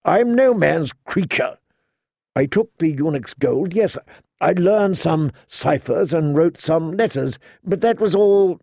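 lightly voiced knight, hurt and insistent; a hint of a wounded knight pleading his case; Jorah, pleading.

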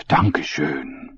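slow German "Dankeschön"; German accent, spent from coughing; German thanks. Acted. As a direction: breathe out "Dankeschön" after choking.

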